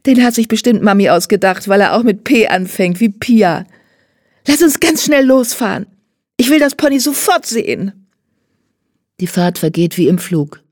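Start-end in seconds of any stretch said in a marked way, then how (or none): 0.1-8.1 put-on high, gushing child's voice; an impatient girl who wants to go now; high, thrilled, eager girl talking fast in joy; excited little girl. A narrator's reading.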